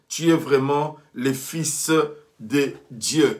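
measured, phrase-by-phrase Bible reading; declaimed Bible story; scripture reading. Acted. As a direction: read the Gospel out to a congregation, pausing after each phrase. Reads the scripture passage aloud.

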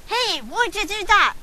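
tough-guy gangster, slowed down. Acted. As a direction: play it like a street thug. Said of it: "Why did I go from gangster to British?".

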